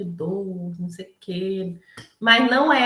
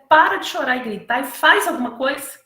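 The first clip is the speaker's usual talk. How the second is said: stern command; 3 semitones higher, 6 dB louder than usual. Retold or imitated. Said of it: "diz, ele".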